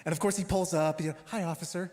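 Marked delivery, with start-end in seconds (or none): 1.3-1.9 all happy. Retold or imitated. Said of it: "all happy and stuff".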